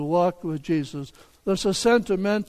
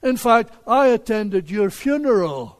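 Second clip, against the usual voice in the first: raised pitch and firmer volume, mildly astonished; incredulous neighbor; 3 semitones higher, 4 dB louder than usual. Acted. Neighbor to the man whose funeral he attended, incredulous. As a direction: insist on it in acted disbelief. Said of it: "His neighbor says".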